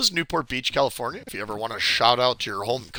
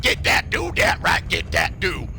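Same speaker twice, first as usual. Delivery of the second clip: put-on hillbilly Arkansas accent. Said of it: "they speak like".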